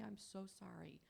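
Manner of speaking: mean the apology, plainly and sincerely. Shown as a demonstration. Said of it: "and really say".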